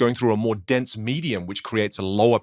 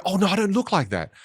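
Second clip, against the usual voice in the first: mock dismay; 8 semitones higher than usual. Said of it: "And you go".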